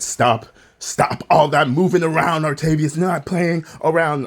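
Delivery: sharp scolding teacher voice; strict Sunday school teacher. Retold or imitated. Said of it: "and she said".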